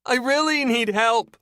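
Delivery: high, loud, slow muffled plea; beg, stressing really; trapped woman pleads for help; pleading woman. A narrator's reading. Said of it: "The woman's muted voice".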